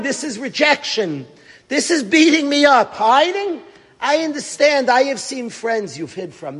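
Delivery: a touch of anguished shouting; mild retold anger at God; angry plea. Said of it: "He starts screaming and getting angry and crying".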